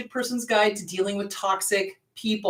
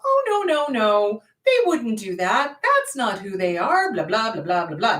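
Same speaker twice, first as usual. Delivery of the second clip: doubting client. Retold or imitated. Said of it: "some of my clients do and go".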